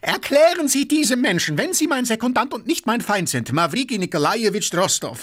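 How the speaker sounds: high-pitched, furious demand; beside himself with fury. A narrator's reading. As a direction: rage at your own second. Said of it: "stampfte außer sich vor Wut". (außer sich vor Wut)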